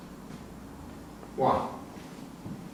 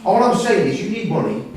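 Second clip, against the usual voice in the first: forceful insistence; 6 semitones higher, 6 dB louder than usual. Acted. Insisting to wife.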